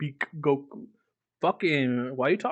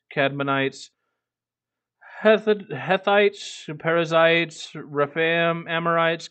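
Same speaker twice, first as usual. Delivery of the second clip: a lightly heightened Bible reading; scripture reading. Acted. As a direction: read the passage aloud like a lector, a bit above your chat voice. Reads scripture aloud to chat.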